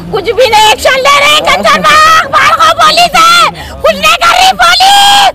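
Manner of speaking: real anguish climbing into a crying shout. Real, not acted. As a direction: wail at the police, building to tears. Grieving mother accuses the police.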